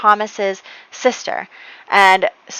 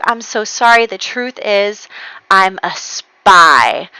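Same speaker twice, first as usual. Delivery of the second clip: slow build to a drawn-out reveal; mock-solemn admission, last word stretched out; dramatic confession; 4 dB louder, slower than usual. Emil admits the truth to Serena, dramatic confession. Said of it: "And Emil is like".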